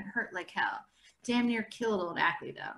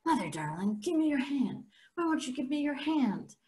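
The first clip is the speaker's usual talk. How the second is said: mock blind plea; 5 semitones higher than usual. Mock blind boy pleading.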